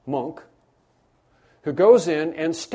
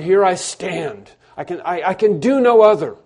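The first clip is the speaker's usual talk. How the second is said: bold declaration; 2 semitones higher, 6 dB louder than usual. Retold or imitated. Luther defying the emperor, bold declaration. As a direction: plant your feet and declare it. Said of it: "he spoke with clarity".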